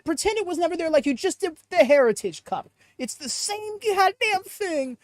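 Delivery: a hammed-up bad British accent, mock scolding; playfully bad British accent with rising pitch; mock-indignant fake British accent; horrible British accent. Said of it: "There is my horrible British accent for the day".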